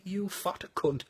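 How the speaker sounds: slow, soft private insult; muttered inner thought. Retold or imitated. Eating her pizza out the window, muttered inner thought.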